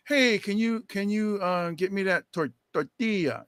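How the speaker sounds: mock Spanish-accented "tortilla"; affected foreign pronunciation. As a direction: order with a put-on Spanish "tortilla". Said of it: "talk like that".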